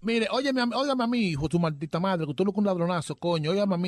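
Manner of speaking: acusación alzada y áspera; regaña como estafado furioso; reclamo airado. Acted. Broma telefónica, reclamo airado. (bronca fingida por teléfono)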